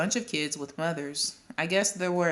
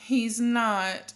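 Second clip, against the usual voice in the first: a louder, higher protest; mother calling out; 5 semitones higher, 6 dB louder, much slower than usual. A narrator's reading. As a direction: cut in loudly across the room. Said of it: "another mother called".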